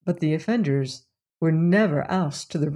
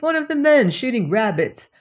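higher, lightly relieved voice; 5 semitones higher than usual. Acted. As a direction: brush it off with relief, pitched up. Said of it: "rather relieved".

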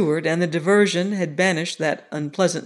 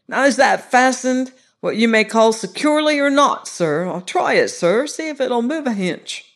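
a hint of a nervous servant, higher and louder; lightly voiced cockney steward; 4 semitones higher, 4 dB louder than usual. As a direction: plead with the gentleman, rough dialect. Narrator voices frightened steward.

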